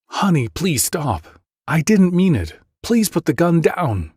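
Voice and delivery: high, desperate begging; pleading. Acted. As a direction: beg him to put it down. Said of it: "My wife pleaded with me".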